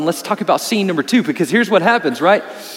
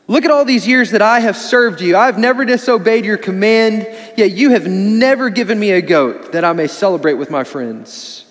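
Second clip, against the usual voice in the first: resentful elder son; 3 semitones higher, 3 dB louder than usual. Retold or imitated. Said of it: "He says".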